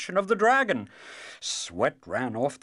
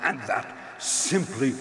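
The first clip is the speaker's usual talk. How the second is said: laughing. Acted. Dragon still laughing.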